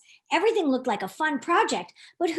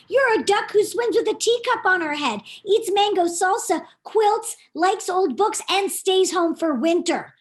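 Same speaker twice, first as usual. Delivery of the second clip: teasing list; 5 semitones higher than usual. Acted. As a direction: poke fun at her habits. Chad listing her quirks.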